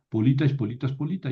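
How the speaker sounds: "polita y politas, polita", each stressed on LI; unmoved accent. Shown as a demonstration. Teacher recites the other cases, stress fixed on LI in "polita". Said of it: "el acento no se mueve".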